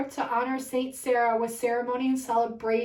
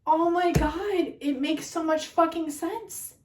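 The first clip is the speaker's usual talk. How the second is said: loud, drawn-out overwhelmed disbelief; tearful amazement; 4 semitones higher, 3 dB louder, slower than usual. Real, not acted. Reader in tears at a huge revelation, overwhelmed. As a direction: stretch out each cry of astonishment. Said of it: "I'm in tears right now".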